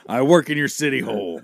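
laughs through the promo line; laughing. Real, not acted. Wrestler tagline cracking himself up, laughing. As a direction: break up while saying it.

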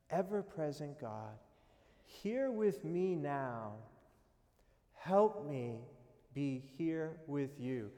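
slow, hushed prayer voice. Acted. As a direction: pray it gently, taking time over each phrase. Leads a short prayer.

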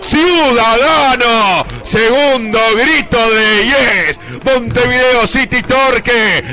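slow stretched celebratory call; drawn-out goal cry. Real, not acted. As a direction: savor the second goal.

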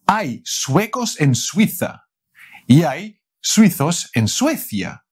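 tongue twister said at speed; fast run-through. Shown as a demonstration. Teacher showing a tongue twister fast. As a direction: rush it, the quick take. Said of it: "Voy a decirlo rápido primero".

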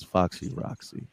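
low, breathy whispered name. Acted. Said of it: "I gotta get deep into the microphone".

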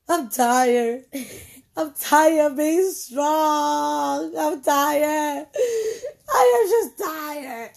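slow, breaking, tearful confession; tired and near tears. Retold or imitated. Friend admitting she is worn out, voice breaking. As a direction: let the voice crack with exhaustion.

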